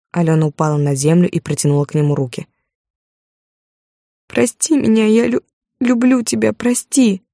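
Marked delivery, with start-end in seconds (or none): 4.3-7.2 begging. Acted. Wife begs on the ground.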